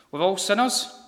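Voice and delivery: sinners rising like a question; "We're all sinners" with the rise on "sinners" as if unsure. Retold or imitated. Coworker doubting she is a sinner, a rising questioning tone. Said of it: "with a sort of question mark".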